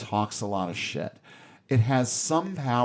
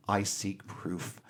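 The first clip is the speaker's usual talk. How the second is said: simple, honest, softer statement; slow, quiet sincerity; Kirk; 2 semitones lower, 7 dB quieter, slower than usual. Retold or imitated. Kirk replying to God's challenge, simple and honest. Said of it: "this wonderfully simple and honest line".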